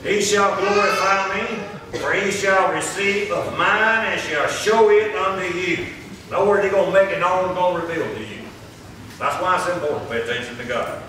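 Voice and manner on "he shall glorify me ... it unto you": slow, measured declamation from the pulpit; scripture read aloud. Real, not acted. Preacher reading Saint John to the congregation, slow declamation. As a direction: sustain each phrase as solemn Bible reading.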